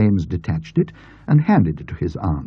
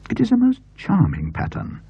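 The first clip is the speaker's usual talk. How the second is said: put-on higher, eager elderly aunt; aunt's voice; 12 semitones higher than usual. A narrator's reading. Aunt urging James to show her the paper, eager. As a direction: voice the excited aunt.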